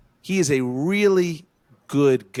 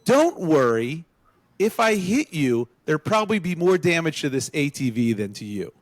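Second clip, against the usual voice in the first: Adam quoted; 2 semitones higher than usual. Retold or imitated. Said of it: "and I quote".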